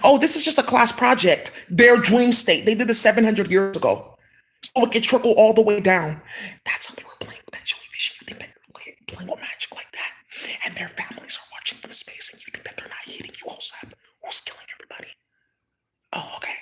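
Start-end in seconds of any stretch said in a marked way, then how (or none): 0.0-6.2 1 accusing rant. Real, not acted. 6.7-15.1 menacing hushed whisper. Real, not acted. Warning those playing with magic, whispering.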